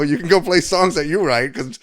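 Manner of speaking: high, loud, heated tirade; imitated shouting in an argument; retold screaming match. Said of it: "screaming match".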